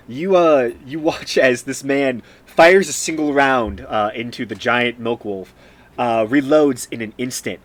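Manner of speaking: animated, punchy combat narration; game master's scene setting. Acted. Game master describing the shot to a player, animated narration. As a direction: narrate the action with emphatic force.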